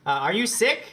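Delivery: high, loud flustered bluff; nervous liar. Acted. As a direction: stammer a panicked fake excuse. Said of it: "a muffled voice from beyond the door".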